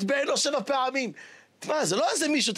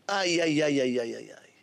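whispered lament; 7 semitones lower than usual. Real, not acted. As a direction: let the lament die into a breath. Sighing lament fading.

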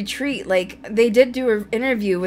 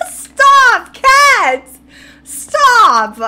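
high, loud helpless shriek of laughter; crying with laughter; 11 dB louder, much slower than usual. Real, not acted. Podcaster begging co-host to stop, crying with laughter. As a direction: beg her to stop through tearful laughter. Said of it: "I'm crying right now".

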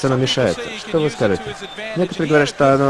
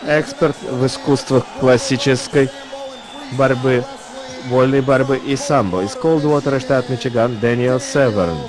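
ring announcer. Real, not acted. Announcing opponent.

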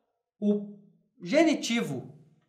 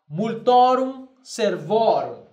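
slower, steady multorum servorum; slow Latin repeat; 3 dB louder, slower than usual. Shown as a demonstration. Teacher repeating the Latin form for students. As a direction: repeat it calmly for the class. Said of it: "apenas observem bem a pronúncia".

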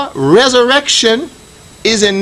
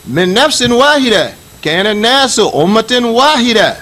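Quranic recitation. Shown as a demonstration. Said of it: "Now you should hear".

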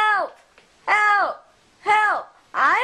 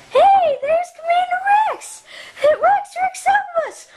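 calling out; 11 semitones higher than usual. Pretend. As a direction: shout up to get his attention. Calling out to Rex.

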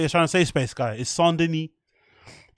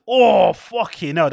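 loud, slow shocked cry; shocked shout; 4 semitones higher, 5 dB louder, slower than usual. Real, not acted. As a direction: blurt it out in disbelief. Reacting to another low blow.

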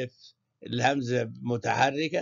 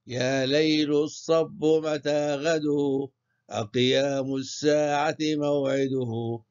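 measured, slightly slower poetic chant; verse recitation. Shown as a demonstration. Teacher reciting يا ليل الصب for scansion, measured and rhythmic. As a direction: recite the line with a steady meter. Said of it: "نقرأ".

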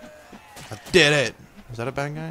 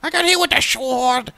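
much higher, louder indignant yell; outraged shout; 13 semitones higher, 6 dB louder than usual. Real, not acted. Gamer struck down, high outraged shout. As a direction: cry it out in disbelief. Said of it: "repeated shouted".

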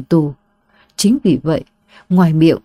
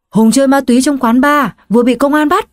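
urgent reply; 6 semitones higher than usual. Acted. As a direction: hurry the bad news out. Friend repeats the bad news.

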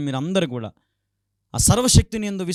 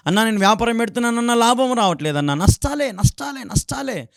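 whining believer; 6 semitones higher than usual. Retold or imitated. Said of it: "అంటా ఉన్నావా".

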